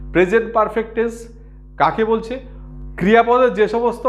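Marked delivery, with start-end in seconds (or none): 0.1-1.3 পারফেক্ট given clear weight; said again clearly. Shown as a demonstration. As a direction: spell out প্রেজেন্ট পারফেক্ট টেন্স carefully. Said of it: "আমি আরেকবার বলছি".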